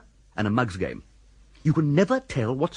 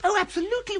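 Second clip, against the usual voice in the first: eager agreement; faster than usual. Acted.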